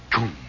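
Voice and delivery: short vocal boom; imitated switch boom. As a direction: mimic a switch thunking in.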